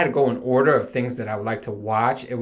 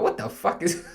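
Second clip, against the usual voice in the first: breathy laugh through the words; laughing disbelief; 4 semitones higher, 4 dB quieter than usual. Retold or imitated. Short dad laughing among giant fathers, half-whispered disbelief.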